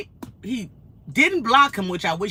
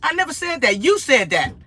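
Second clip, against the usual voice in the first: New York attitude; 5 semitones higher than usual. Retold or imitated. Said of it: "like a New Yorker".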